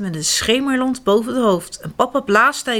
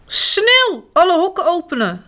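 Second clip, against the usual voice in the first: higher, louder urgent order; urgent call; 9 semitones higher, 4 dB louder than usual. A narrator's reading. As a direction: shout the order quickly. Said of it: "roept Spruitje". (dringend roepen)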